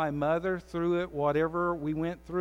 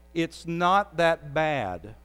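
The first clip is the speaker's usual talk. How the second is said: dismissive excuse; 3 dB louder, much slower than usual. Retold or imitated. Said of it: "said it to yourself".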